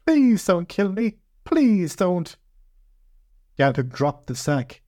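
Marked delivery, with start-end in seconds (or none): 0.0-2.4 high, drawn-out begging; slow high-pitched pleading; wailing plea. A narrator's reading. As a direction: plead for your life in a little high voice. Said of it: "the voice wailed".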